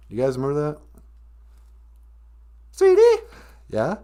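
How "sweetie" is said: calling out. Real, not acted. Calling out to co-host.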